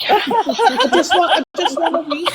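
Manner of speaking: laughing. Real, not acted. Joking about wanting a break.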